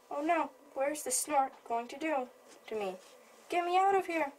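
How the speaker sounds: a little bird crying out in fear; frightened baby bird. Acted. Baby bird lifted up, scared.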